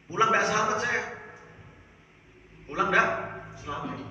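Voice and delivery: dramatic alarmed outcry; loud exclamation. Acted. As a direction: shout it like you barely escaped. Exclaiming the danger to the crowd.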